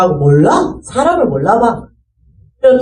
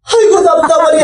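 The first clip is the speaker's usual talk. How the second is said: exasperated sigh; 7 semitones higher, 4 dB louder than usual. Retold or imitated. Mother frustrated, louder.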